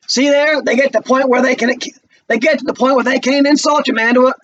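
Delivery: put-on bitter young man jeering at a college boy; Walter taunting. Walter's voice again.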